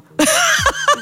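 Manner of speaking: high, hearty burst of laughter. Real, not acted. Telling the radio host her doctor story, high hearty laughter.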